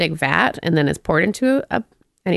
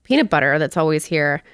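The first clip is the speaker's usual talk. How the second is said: mild mock yell. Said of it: "he kinda yells at the guy".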